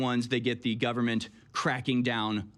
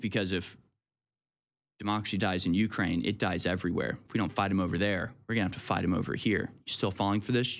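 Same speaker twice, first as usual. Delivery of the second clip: lower, smug pro-war pundit; mock war hawk; 4 semitones lower than usual. Host mocks war propaganda as a smug, lower hawk. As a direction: sneer like the military-industrial complex.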